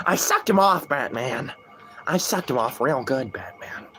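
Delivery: smug Joker, fading to a hush on Batman. Acted. Streamer voicing Joker bragging to Batman, smug Joker voice. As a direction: gloat like a proud clown, whisper the last word. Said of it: "in the Joker voice".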